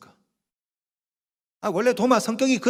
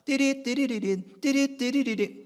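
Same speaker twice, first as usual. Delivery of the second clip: high, slow sing-song electronic trill; imitated phone ringtone; 4 semitones higher, slower than usual. Deacon's phone ringing mid-sermon, imitated ringtone trill. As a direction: mimic an old mobile ringing. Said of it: "전화가 온 거예요".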